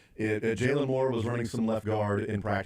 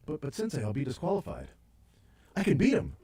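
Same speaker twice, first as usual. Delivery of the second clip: higher, pleading student to his sensei; mock pupil protest; 3 semitones higher than usual. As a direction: protest like a hammed-up karate pupil.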